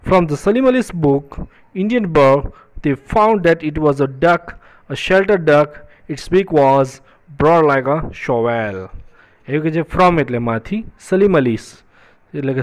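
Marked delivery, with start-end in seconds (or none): 0.1-8.9 very slow, word-by-word textbook reading; read-aloud lesson text. Acted. Teacher reading a story line to students, slow deliberate read-aloud. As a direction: read it out slowly, stretching each word.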